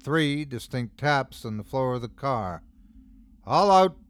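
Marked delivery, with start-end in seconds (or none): 3.5-4.0 rasped. A narrator's reading. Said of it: "rasped six voices in unison".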